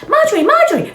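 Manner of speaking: high, loud call out; photographer calling. Acted. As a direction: shout to get her attention.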